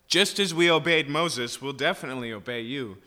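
presumptuous. Shown as a demonstration. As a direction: brag like you could never fail. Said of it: "a presumptuousness that things are different now".

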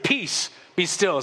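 slow, calm, steady words; calm command. Retold or imitated. Jesus speaks to the wind, slow and calm. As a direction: still the storm gently. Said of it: "and said to it".

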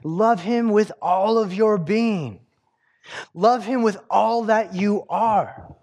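the true sense of the commandment, said slowly from the heart; earnest paraphrase. Shown as a demonstration. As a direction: lay it out gently as the real meaning. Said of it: "is he's saying".

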